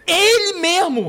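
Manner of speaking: high, slow excited exclaim; light up in recognition. Real, not acted.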